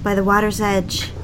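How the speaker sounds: calm first-person audiobook narration; story narration. A narrator's reading. Wife recounting the night swim to listeners, calm narration. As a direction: tell it as an intimate memory, evenly paced.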